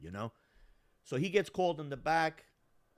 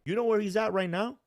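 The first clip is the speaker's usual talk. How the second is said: eager question; 8 semitones higher, 6 dB louder than usual. Retold or imitated. Eager question about the abuser.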